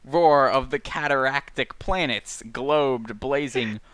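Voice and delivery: slow, drawn-out poetic recitation; literary read-aloud. Acted. Podcaster reading stream of consciousness aloud, slow poetic intoning. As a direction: intone it, letting each phrase fall away. Reads novel passage aloud.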